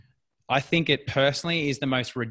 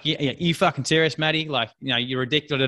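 mild mock drill-sergeant call-out; army commando style. Shown as a demonstration. Coach showing the tough approach to a client, mock commando. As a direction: snap at her like a commando, half-hearted. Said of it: "the army commando style".

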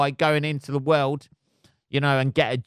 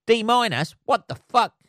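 much higher, louder disbelieving outburst; mock shocked student; 10 semitones higher, 4 dB louder than usual. Student reading a bad result: high, loud shocked disbelief. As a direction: squeal it like a stunned kid reading a bad grade. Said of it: "you're like".

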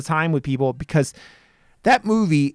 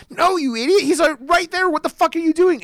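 higher, urgent mock yell at the screen; 12 semitones higher than usual. Viewer yelling at a horror character on TV, mock shout. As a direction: scold a dumb character from the couch. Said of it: "you were yelling at the T V".

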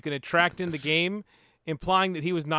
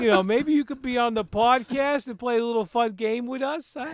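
newsboy from the twenties; 5 semitones higher than usual. Retold or imitated. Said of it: "he talks like a newsboy from the twenties".

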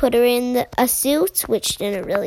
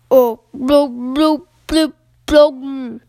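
bubbly frog voice; 5 dB louder than usual. Acted. Froggy answers underwater.

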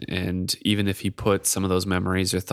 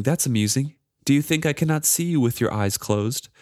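a lightly voiced, higher, mocking magic charm; sly needling voice, slightly raised; taunting charm; 5 semitones higher than usual. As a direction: tease him from the shadows, higher. Reads the charm's taunting lines.

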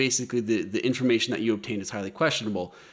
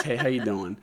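put-on light Brooklyn accent greeting; casual Brooklyn "how you doing". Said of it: "The Brooklyn accent's back".

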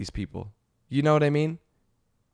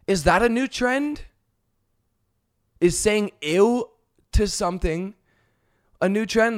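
mock girl voice; 8 semitones higher than usual. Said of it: "She said".

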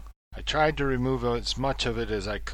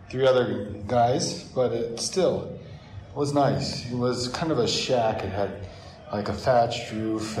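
recorded in an echoey hotel room; bouncy hard-walled room echo. Real, not acted. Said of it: "I apologize for the echoiness".

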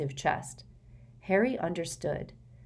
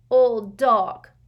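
hoarse; 6 semitones higher, 10 dB louder than usual. Acted. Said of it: "Dudley said hoarsely".

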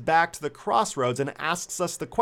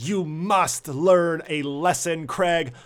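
slow menacing; slower than usual. Retold or imitated. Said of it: "she yells".

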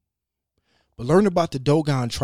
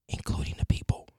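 whispered aside; 4 dB quieter than usual. Real, not acted. Hushed aside after Africa claim.

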